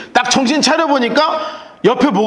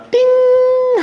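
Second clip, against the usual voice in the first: cartoon ding; much slower than usual. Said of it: "만화 보면 띵".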